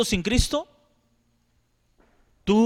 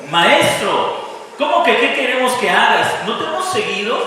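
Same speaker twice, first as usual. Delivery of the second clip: indignant protest; 4 semitones higher than usual. Retold or imitated. Imagined protest of blind men.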